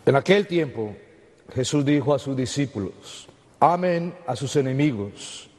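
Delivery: measured liturgical proclamation; Gospel reading. Acted. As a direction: read scripture solemnly aloud.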